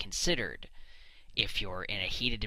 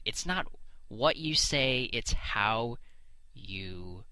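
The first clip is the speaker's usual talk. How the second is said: mocking whisper; much slower than usual. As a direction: parody of a profound saying, whispered away. Mocking the adage again.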